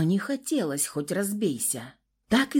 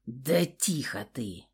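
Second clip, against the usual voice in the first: low, softer, slow hush; second thug hushing the girl, low and soft; 6 semitones lower, 5 dB quieter, slower than usual. A narrator's reading. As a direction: shush her sharply. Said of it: "шикнул на меня второй".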